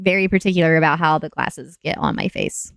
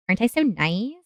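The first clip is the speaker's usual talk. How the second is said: teasing singsong. Real, not acted. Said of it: "repeated teasing".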